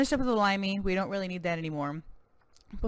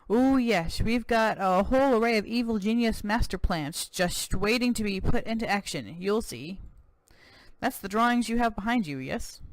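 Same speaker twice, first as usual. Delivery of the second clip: smug evil geniuses; 4 semitones higher than usual. Acted. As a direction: drag out the evil boast.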